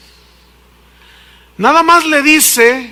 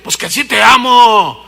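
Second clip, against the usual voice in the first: louder, exasperated insistence; loud insisting husband; 6 dB louder than usual. Acted. Husband shouts to his wife that he loves her. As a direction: shout it to settle it.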